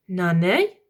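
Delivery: Lord Protector calling. Acted. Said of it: "said the voice".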